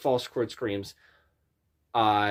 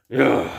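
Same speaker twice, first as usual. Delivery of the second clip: loud tired ugh; exasperated groan; 7 dB louder than usual. Shown as a demonstration. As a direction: grunt it out. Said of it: "what you wanna go for".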